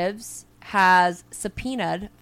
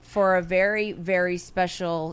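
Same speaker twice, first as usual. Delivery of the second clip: slow show intro; much slower than usual. Acted. Host introduces a segment.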